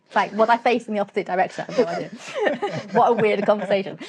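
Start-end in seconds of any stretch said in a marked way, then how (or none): 1.7-4.0 amused laughter through the words; real laugh, pitch jumping up. Real, not acted. Joking about the Yorkshire saying turn around, laughing.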